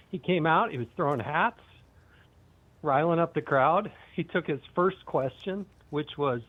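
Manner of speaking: breathless, gasping between phrases; panting from running inside; out of breath. Real, not acted. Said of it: "I have to catch my breath".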